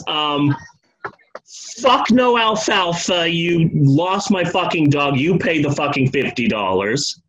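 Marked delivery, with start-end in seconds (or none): 1.8-7.2 angry Bud. Retold or imitated. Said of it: "And Bud says".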